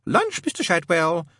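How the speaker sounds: high, slow singsong call; Madame Tracy. A narrator's reading. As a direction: call through the door, drawing it out. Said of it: "Madame Tracy would call out".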